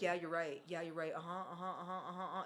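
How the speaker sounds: quick dismissive yeahs; rushed brushing off. Retold or imitated. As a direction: hurry him off the phone. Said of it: "it felt very rushed".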